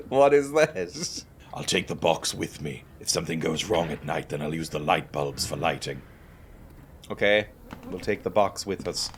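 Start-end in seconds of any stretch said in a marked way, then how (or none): 1.5-6.0 low, subdued in-character reading; game text read-out. Acted. Hero planning to take the box, low and subdued.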